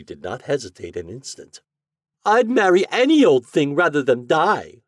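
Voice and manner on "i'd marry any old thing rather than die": loud, high desperate cry; cried out. Acted. Dying heiress crying out her choice, loud and high. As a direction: cry it out from the sickbed. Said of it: "she cried".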